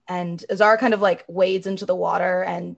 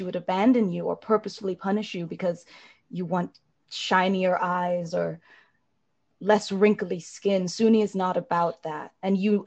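reassuring. Acted. Azara consoling the elf, lightly voiced and tender.

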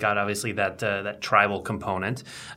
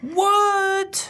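squeaky high startled what; surprised. Real, not acted. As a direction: yelp it in disbelief. Shocked reaction to sequel news.

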